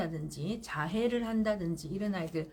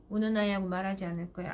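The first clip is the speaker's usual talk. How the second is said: brisk and firm, a little faster; firm, no emotion; 2 semitones lower, faster than usual. Shown as a demonstration. Mother refusing to talk to crying child, brisk and firm. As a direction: say it quickly and flatly. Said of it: "단호해야 돼요".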